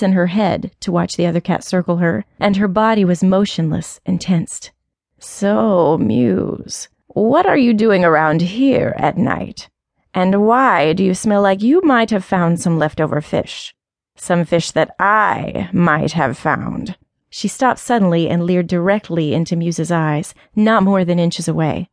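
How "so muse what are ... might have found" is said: put-on old alley cat. Old cat questions Muse.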